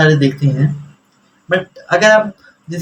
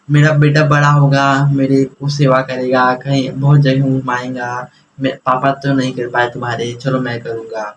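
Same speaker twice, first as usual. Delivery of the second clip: lightly voiced father, low and measured; a father's hopes, said lower and unhurried; hopeful father; 5 semitones lower than usual. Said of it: "उनको लगता था कि मेरा बेटा". (पिता की धीमी, नीची, उम्मीद भरी आवाज़)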